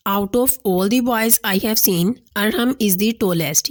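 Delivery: carefully paced dictation of a sentence; slow example sentence. Shown as a demonstration. Teacher slowly reading a superlative example aloud. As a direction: read the English example very slowly. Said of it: "अब last में हमारे पास superlative degree है".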